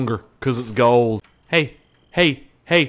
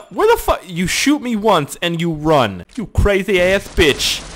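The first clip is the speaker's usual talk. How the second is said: mock outrage; 5 semitones higher, slower than usual. Real, not acted. Yelling at an enemy.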